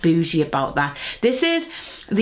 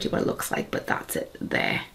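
hushed whisper; 8 dB quieter than usual. Real, not acted. Showing jar quietly.

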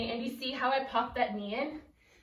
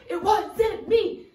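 slow and higher, stretched out; drawn-out denial; 7 semitones higher, 7 dB louder, much slower than usual. Pretend. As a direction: drag the line out like a chant. Dance chant, repeated.

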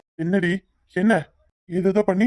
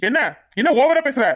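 angry; 3 semitones higher than usual. Acted. Husband quarrel, she threatens leaving.

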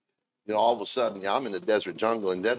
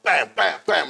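imitated gun shots; 7 semitones higher, 7 dB louder, slower than usual. Imitating his paintball shots.

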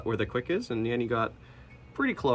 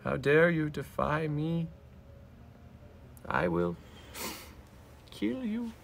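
megalomaniac rant; 5 semitones higher, 4 dB quieter than usual. Pretend. Cat voiced as a villain.

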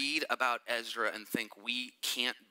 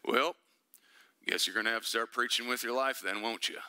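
put-on Southern accent; 4 semitones lower than usual. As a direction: slip lightly into a Southern Louisiana accent. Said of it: "so he talks like this".

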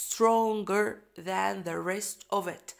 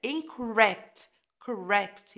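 incorrect with correct stressed, louder; 4 dB louder, much slower than usual. Shown as a demonstration. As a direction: hit correct. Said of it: "ال stress على correct".

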